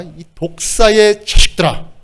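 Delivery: slow, stretched-out denunciation; acted righteous anger; angry rebuke. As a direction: pronounce a wrathful curse, drawing out each word. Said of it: "막 분노하시면서".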